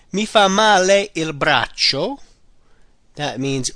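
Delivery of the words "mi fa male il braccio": slow, careful model phrase. Shown as a demonstration. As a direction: lay it out for learners. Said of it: "All right?".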